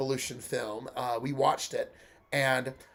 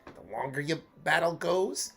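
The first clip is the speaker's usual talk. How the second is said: Bugs Bunny voice; 3 semitones higher than usual. Acted. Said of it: "going for a Bugs Bunny sort of sound".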